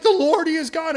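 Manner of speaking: crowd proclamation. Retold or imitated. The people at Mount Carmel shouting their proclamation, high and loud. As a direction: call it out like an awed crowd.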